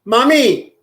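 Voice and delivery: put-on high little-kid cry of "Mommy"; childlike call.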